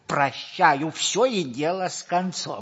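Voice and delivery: irritated shout. Acted. Geronte forced to forgive.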